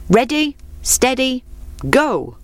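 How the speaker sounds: fox starts the race, calling out. Acted. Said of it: "the fox called".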